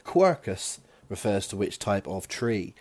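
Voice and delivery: quercus with a West Country r; West Country accent. Real, not acted. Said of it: "I can't help but say quercus with my West Country accent".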